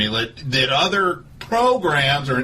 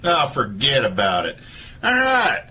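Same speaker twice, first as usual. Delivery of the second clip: Doctor Phil voice; 5 semitones higher than usual. Acted. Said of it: "This is Doctor Phil".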